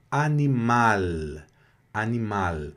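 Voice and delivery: animal said slowly, final L on the tongue tip; animal: L final na ponta da língua, sem som de U; French L at the end. Shown as a demonstration. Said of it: "L que sobe bem aqui na ponta da língua". (animal, devagar, com L na ponta da língua)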